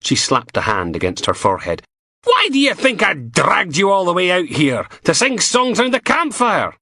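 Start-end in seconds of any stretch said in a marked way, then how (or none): 2.2-6.8 higher, mocking and sharp; sardonic inspector. A narrator's reading. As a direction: needle him with scorn. Steele mocking Logan.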